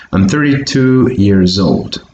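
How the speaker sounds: put-on "years old" joined by a buzzing Z; linked Z sound. Shown as a demonstration. Teacher modelling the whole sentence for learners, linked Z pronunciation. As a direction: say "years old" as "year-zold". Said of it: "with a Z sound".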